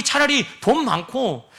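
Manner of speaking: ordinary talk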